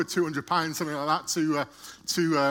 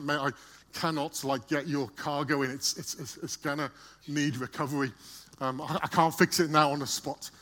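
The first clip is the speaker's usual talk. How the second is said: apologetic; 3 semitones lower, 4 dB quieter than usual. Retold or imitated. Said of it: "he's really apologetic".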